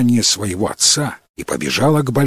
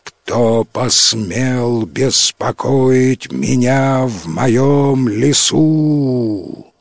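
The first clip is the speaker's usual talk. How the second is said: thunderous voice; much slower than usual. Acted. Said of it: "раздался громовой голос".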